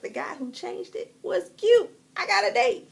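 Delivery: high, loud, thrilled announcement; gleeful good news. Pretend. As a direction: squeal the happy surprise. Acts out delight at lucky outcome.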